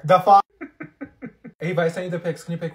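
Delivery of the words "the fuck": shocked outburst. Acted. Shocked reaction to insult.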